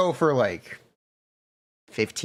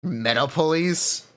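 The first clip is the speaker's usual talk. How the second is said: cop voice; slower than usual. Acted. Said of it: "That's a good bit".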